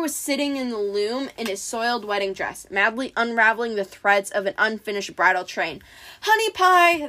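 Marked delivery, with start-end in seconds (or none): 6.2-7.1 high, raised-voice call; mock monster shout; monster's shout. A narrator's reading. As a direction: call out loudly from afar, pitched high. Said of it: "the monster shouted".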